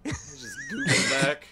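"Just Google back" very high, slow, swallowing "back"; slurred Google back. Pretend. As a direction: squeak "Google back" with the ending dropped. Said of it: "the less of the word you actually say, the funnier".

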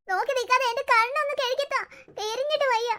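high, pained demand; pained urgency. Acted. Grandmother ordering her eyes be washed, in pain. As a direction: plead impatiently through the burning.

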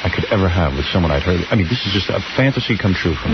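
a hint of a smooth suitor; sweet talk. Shown as a demonstration. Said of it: "A little sweet talk".

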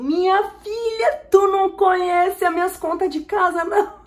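high, loud amused protest; drawn-out shrieky exclamation, cracking up; incredulous laughing outburst. Real, not acted. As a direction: cry out in laughing disbelief. Amused disbelief at never-late-bills guess.

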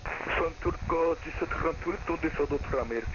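voice changer. Acted. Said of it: "ça sert à rien d'utiliser un modificateur de voix".

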